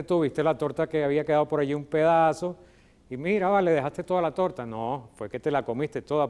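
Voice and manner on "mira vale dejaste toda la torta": higher, louder mock exclamation; ironic. Shown as a demonstration. Finding the cake all eaten, ironic exclamation. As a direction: call them out with light irony. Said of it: "porque están utilizando la ironía".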